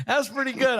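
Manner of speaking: laughs, then speaks up high; amused, laughing it out. Real, not acted. Laughing at friend's Russian accent.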